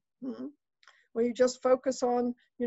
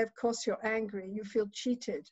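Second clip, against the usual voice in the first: soft reassurance; 5 dB quieter than usual. Retold or imitated.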